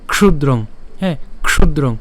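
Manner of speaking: ক্ষুদ্রং with an initial "ksh" cluster; recited pronunciation. Shown as a demonstration. Teacher demonstrating a word to learners, ক্ষুদ্রং as "kshudrong". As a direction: sound k then sh tightly in ক্ষুদ্রং. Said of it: "তাহলে যদি আমরা পাঠ করি কিভাবে".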